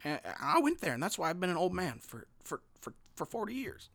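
lightly voiced rambling old man; a hint of an old-timer reminiscing. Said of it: "it's the old guy voice".

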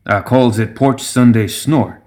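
slow, lightly voiced old gremlin; a hint of a proud backwoods brewer; old gremlin brewmaster. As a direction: present your moonshine unhurriedly. Voices the old brewmaster naming drink.

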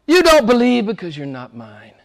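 a hint of Jesus rebuking. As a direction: speak it as Jesus to the leaders. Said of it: "He says to the religious men".

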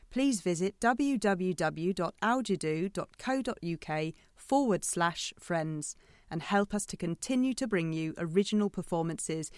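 even announcer read; credits announcement. Acted.

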